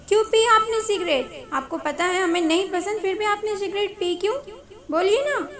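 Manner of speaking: a touch of exasperated scolding; cross questioning. Acted. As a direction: press him for an answer. Acted scolding over the cigarette.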